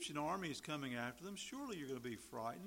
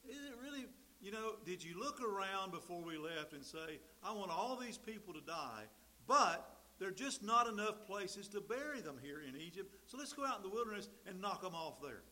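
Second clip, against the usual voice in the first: biting sarcasm; 3 semitones higher than usual. Retold or imitated. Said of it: "This is that biting sarcasm".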